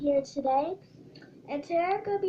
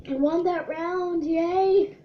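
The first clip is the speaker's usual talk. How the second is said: excited cheer; 5 semitones higher, 5 dB louder, slower than usual. Real, not acted. Celebrates winning the round.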